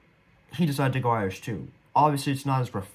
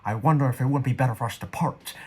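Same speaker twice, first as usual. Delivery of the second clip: lightly mimicked crooked-mouth stage line; mock the skewed-mouth attempt at Irish; slanted-mouth co-star imitation. Quoting the co-star's line to viewers, lightly imitating slanted mouth. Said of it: "watching him do this weird face".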